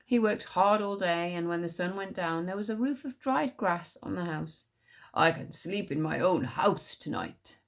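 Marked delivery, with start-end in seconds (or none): 5.1-7.6 slow, content stag. Acted. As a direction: settle in happily as the stag. Stag voice in story.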